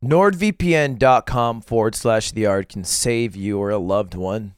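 slow, grave life-or-death ad read; dramatic ad read. Acted. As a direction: plead like a dying man. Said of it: "you're so serious".

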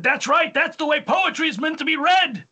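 mock emphatic approval from a drama teacher; imitating acting teacher. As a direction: raise the pitch like an approving teacher.

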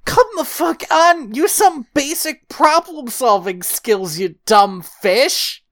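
drawn-out, exasperated scolding; mock exasperation. Host tells off the cartoon king, hammed-up exasperation. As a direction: stretch out the insult in disbelief.

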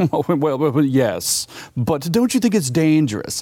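a light, hammed-up British accent; lightly voiced British journalist objecting; mock British reporter. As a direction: imitate the prim British reporter, half-hearted. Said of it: "very British, right?".

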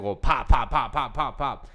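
popcorn popping; playful popcorn pops; popping sounds. Retold or imitated. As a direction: pop it out like kernels bursting. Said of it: "popcorn experience in my head".

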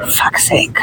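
a whispered curse under her breath; annoyed whisper. Real, not acted. Whispering her annoyance about the plane landing.

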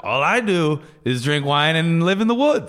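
a light, badly faked Finnish accent; mock Finnish accent, barely there. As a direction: play a Finnish guy with a bad Finnish accent. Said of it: "What was that accent? / Finnish accent".

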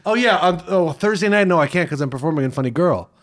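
imitating someone mis-stressing "Funny Girl"; casual excuse with "Funny Girl" stressed on the wrong syllable; mock the co-host's odd stress on "Funny Girl". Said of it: "as insane as you saying".

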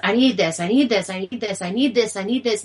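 a hint of a whiny daughter, repeating and pleading; whiny child. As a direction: lightly mimic a kid nagging for something. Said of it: "And then she's whining".

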